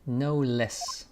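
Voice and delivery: put-on amateur British accent reading; attempted British accent. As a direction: have a rough go at British. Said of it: "my British accent is, is trash".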